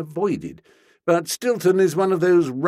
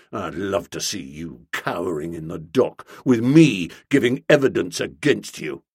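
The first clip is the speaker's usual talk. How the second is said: low, relishing each word; a hint of a gloating bobby; lightly voiced gloating policeman; 7 semitones lower than usual. A narrator's reading. Stilton to Bertie, low and gloating.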